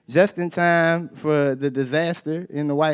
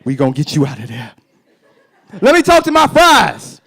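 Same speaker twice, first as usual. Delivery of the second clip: mock jail visitor; 10 dB louder than usual. Talking to fries behind bulletproof glass, rising to a laughing squeal. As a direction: play a visitor comforting food behind glass. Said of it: "I'm just like".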